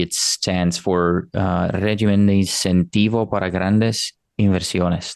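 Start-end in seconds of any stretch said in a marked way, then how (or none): 1.7-5.1 a modest try at a Spanish accent on the name; best Spanish accent. Real, not acted. Host tries the Spanish program name for listeners, light Spanish accent. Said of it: "That's my best Spanish accent".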